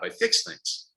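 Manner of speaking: breathy whisper of the mantra; "I fix things" whispered, no voice. Shown as a demonstration. Repeats mantra, second take differs.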